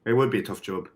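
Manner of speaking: amateur British accent; put-on British accent. Shown as a demonstration. Podcaster judging a tough job, in put-on British. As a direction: keep the mock British going. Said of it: "I'm kinda stuck in it".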